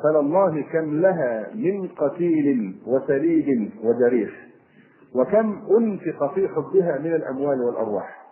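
slow, deliberate classical verse reading; verse recitation. Acted. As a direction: recite the verse with drawn-out syllables. (إلقاء شعر فصيح ببطء)

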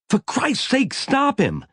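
high urgent yell. A narrator's reading. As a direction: yell for help to stop him. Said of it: "Maggie yelled".

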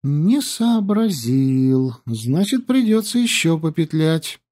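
put-on slow, sly girl voice; scheming under her breath; sly aside. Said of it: "Yandi aside".

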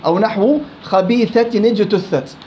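slow خبيثة نجتثت with the tanween voiced as nun before نجتثت; slow recitation example; moving nun of tanween. Shown as a demonstration. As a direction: read خبيثة نجتثت with a clear ni. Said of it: "التقاء الساكنين نحو".

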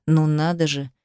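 plain reading voice

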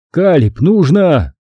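high urgent yell; shouting. A narrator's reading. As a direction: yell to him over the fire. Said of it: "Я снова закричал". (громко кричит другу)

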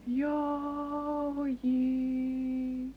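high, loud call. Acted. Someone on the hill by the brickworks calls out loud.

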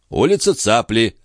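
unhurried confirmation without a question; phlegmatic. A narrator's reading. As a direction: repeat it placidly. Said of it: "флегматично повторил Жан".

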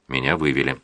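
plain reading voice

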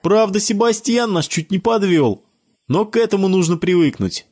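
put-on high boyish voice, lightly teasing; a kid ribbing his friend in a high voice; child's voice, teasing. A narrator's reading. Boy teases Sebastian in front of friends, high child voice.

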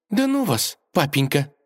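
high, indignant pushing away; annoyed brush-off. A narrator's reading. Princess pulling away from her father, high indignant brush-off. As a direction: shove his words off, miffed. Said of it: "недовольно отстранилась".

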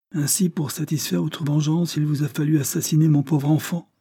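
indignation. A narrator's reading. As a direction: accuse as a grieving father, voice lifted high. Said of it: "en laissant éclater son indignation". (accusation indignée d'un père en douleur)

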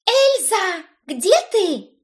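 high, loud demanding call. A narrator's reading. Cousin calling out demanding an answer, high and loud. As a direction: call out for her, insistent and high. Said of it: "требовательно заголосила Брит".

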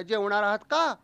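imitated wife calling from the kitchen; arrow-sharp question. Wife calls husband to dinner from kitchen, sharply. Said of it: "स्वयंपाकघरातून बाणासारखा".

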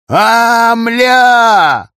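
sudden high yelp of shock, shouted; startled yell. Acted. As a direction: jolt back and yell out in alarm. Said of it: "разбудил нас его крик".

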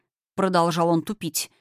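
plain reading voice

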